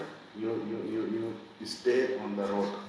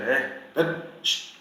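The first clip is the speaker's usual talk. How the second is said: sharp, louder calls ending in a shush; shooing noises; 4 semitones higher, 4 dB louder than usual. Shown as a demonstration. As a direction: shoo a dog with noises. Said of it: "you have to make noise".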